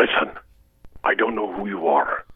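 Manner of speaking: hushed kidnap-call threat; Taken monologue voice. Acted. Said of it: "that entire monologue memorized".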